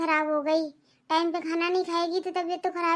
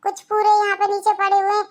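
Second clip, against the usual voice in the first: berating mother-in-law. Acted.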